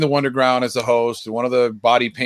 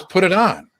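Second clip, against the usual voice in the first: retold firm order; 5 semitones higher than usual. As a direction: tell him to do it, no discussion. Friend repeats the order.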